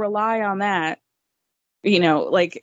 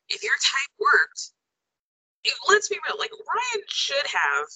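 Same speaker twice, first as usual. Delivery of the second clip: far from mic; 6 semitones higher than usual. Real, not acted. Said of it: "it sounds like you're far away now".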